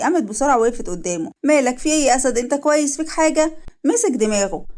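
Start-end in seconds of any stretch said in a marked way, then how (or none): 1.4-3.5 acted anxious questions, pitched up; mildly alarmed, rising concern; worried alarm. Woman checking on man in sudden pain, worried.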